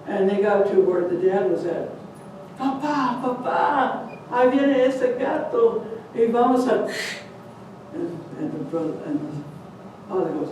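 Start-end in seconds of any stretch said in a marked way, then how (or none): 2.6-6.9 put-on frightened child. Child runs to dad.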